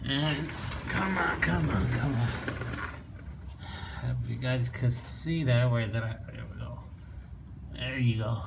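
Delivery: cramped, strained voice from under a car; talking while squeezed under a car; lying under a car. Real, not acted. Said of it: "I'm under the car and it's pretty tight".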